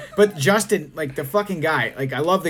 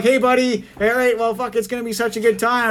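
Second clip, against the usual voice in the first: higher, upbeat retold enthusiasm; hyped-up pitch; 4 semitones higher than usual. Friend hyping the game to Justin, upbeat. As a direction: sell the night to a reluctant friend. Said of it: "I'm like".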